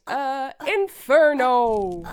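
slow, loud power callout; attack callout. Acted. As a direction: announce the attack. Calling out a fire attack.

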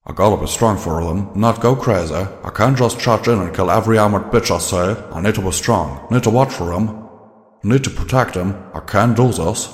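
Calamity talking himself up, lightly voiced; a hint of frantic self-talk; imitating a mutter. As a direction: urge yourself on under your breath. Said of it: "mutter to himself".

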